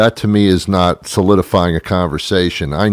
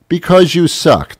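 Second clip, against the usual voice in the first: high, loud snapping retort; angry; 10 semitones higher, 3 dB louder than usual. Acted. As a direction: spit it at the robot. Yelling at the phone robot.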